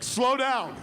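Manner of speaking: high, loud interjection; hammed-up amazed shout; overwhelmed outburst. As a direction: cry out as if blown away. Executives overwhelmed by the pitch.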